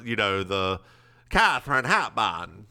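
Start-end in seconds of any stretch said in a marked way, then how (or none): 1.3-2.7 put-on old Hollywood mid-Atlantic accent. Shown as a demonstration. Host shows how the old man should talk, mid-Atlantic accent. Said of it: "if he just did the mid-Atlantic accent".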